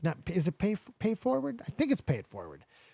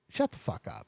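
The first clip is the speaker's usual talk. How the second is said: hushed, near-whispered astonishment; stunned disbelief; 5 semitones higher, 7 dB quieter than usual. Retold or imitated. Graduate learning they share a year, stunned. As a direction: let it out under the breath, stunned.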